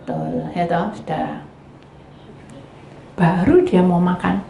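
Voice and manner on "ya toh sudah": ordinary talk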